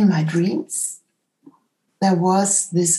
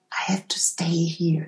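whispering; 6 dB quieter than usual. Retold or imitated. Whispered inner thought.

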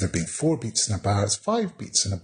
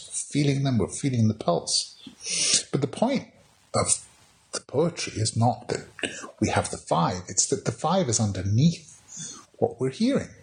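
usual speaking voice

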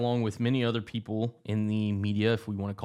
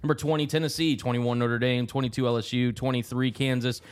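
broadcaster rundown; 3 dB louder than usual. Acted. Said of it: "sound like a little, uh, auctioneer".

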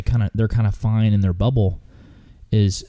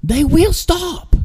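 very high, slow mock holler; squeaky-high impression of a frustrated older man; imitated frustrated yelling; 4 dB louder, much slower than usual. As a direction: imitate the guide yelling, drawn out. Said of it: "he's yelling this".

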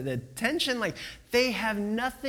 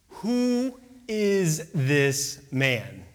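very slow, word by word; measured, wondering question; awed disbelief; 3 semitones lower, much slower than usual. Acted. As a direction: space out each word in awe. Stunned disciples in awe.

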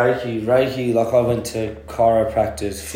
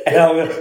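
startled high ape-like yelp through laughter; gorilla yelp; 7 dB louder, faster than usual. Retold or imitated. Retelling the dark-toilet fright, a laughing gorilla yelp. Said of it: "it sounded like a gorilla".

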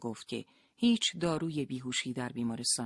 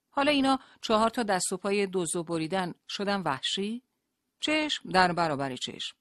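higher, louder, indignant challenge; bristling anger; 5 semitones higher, 5 dB louder than usual. Acted. Rashid bristles at his wife, higher and louder. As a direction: fire back at her, offended. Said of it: "رشید براق شد".

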